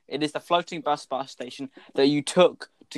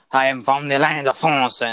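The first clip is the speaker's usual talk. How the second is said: put-on French accent; 4 dB louder than usual. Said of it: "I got the French accent".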